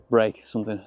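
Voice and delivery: "Break something" with a light Yorkshire lilt; Yorkshire accent. Real, not acted. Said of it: "Excuse my Yorkshire accent there".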